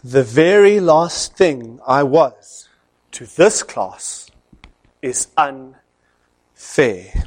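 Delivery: slow, low, measured warning; stern lecturer. Retold or imitated. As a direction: lay down the law slowly. Stern lecturer answers defiant class.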